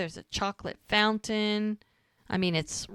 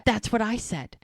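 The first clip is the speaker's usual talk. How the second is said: gossipy whisper; 2 semitones higher than usual. Retold or imitated. Gossiping whisper between guests.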